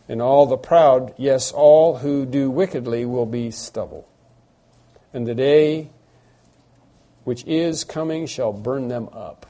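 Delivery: solemn preacher reading Malachi aloud; scripture reading. Acted. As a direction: proclaim the prophecy with rising force.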